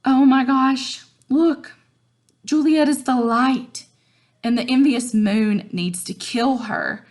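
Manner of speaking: mock-swooning teen Romeo; excited Romeo paraphrase. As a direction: gush over her like a smitten boy. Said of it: "Romeo is saying".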